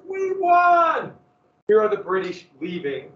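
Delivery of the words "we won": high triumphant shout of victory; excited cheer. Retold or imitated. Patriots celebrating the British leaving, excited shout. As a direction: cry out like a patriot who just won.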